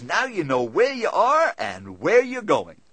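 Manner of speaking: slow, chuckling cabbie voice; a cab driver chuckling to his passenger, slow and amused. Retold or imitated. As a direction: say it through a chuckle, taking your time. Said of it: "He chuckles and says".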